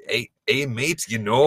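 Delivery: mashed-up Minnesota and Aussie accent; Minnesotan-Australian accent. Shown as a demonstration. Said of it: "deep Minnesotan accent and the deep Australian accent".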